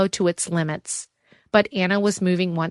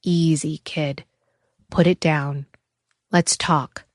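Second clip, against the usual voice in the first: calming tone; 2 semitones lower, slower than usual. A narrator's reading. Landon calming Sammy holding a gun, soothing. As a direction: talk the boy down gently. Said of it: "a calming tone in his voice".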